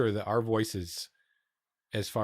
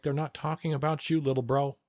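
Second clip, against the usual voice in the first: retold taunting; 4 semitones higher than usual. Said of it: "I'm like".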